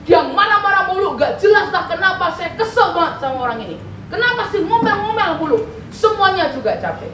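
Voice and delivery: mildly exasperated retold complaint; grumbling to God. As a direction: imitate your own peeved griping in prayer. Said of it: "saya kesel saya ngomel ke Tuhan".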